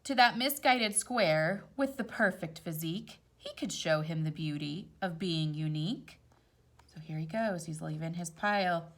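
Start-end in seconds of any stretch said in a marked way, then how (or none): 0.0-6.2 gentle storybook read-aloud; rhyming story voice; reading to children. A narrator's reading. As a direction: read it like a picture book at bedtime. Reads picture book aloud.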